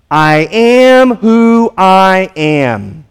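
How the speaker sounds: very slow, solemn divine declaration; voice of God. Acted. Preacher voicing God to Moses, slow and solemn. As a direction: hold each word like God naming himself.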